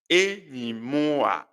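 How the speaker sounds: Enyi mụa with the a leaned on; teacher stressing the a in enyi mụa. Shown as a demonstration. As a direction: lean on the a of mụa. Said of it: "I emphasize that".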